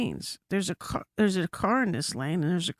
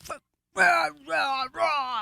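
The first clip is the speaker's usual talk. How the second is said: mock barking rah rah, higher; imitating angry driver; 6 semitones higher than usual. Road-rager shouting out his window, mock yell. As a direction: ham up a raging driver yelling from his window. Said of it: "out his window going".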